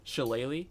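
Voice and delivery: Shillelagh said as sheh-LAY-lee with a questioning rise; pronouncing Shillelagh. Shown as a demonstration. GM confirms to the player how Shillelagh is said, rising. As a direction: check the word Shillelagh, rising. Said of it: "Is that how you pronounce that word?".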